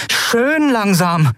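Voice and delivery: slow, high stern order; commanding. A narrator's reading. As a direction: draw it out as a warning. Endriel orders pirates.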